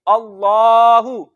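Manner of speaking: अल्लाहु with a thick, full ल; heavy lam. Shown as a demonstration. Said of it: "उसको मोटा पढ़ेंगे". (मोटा लाम)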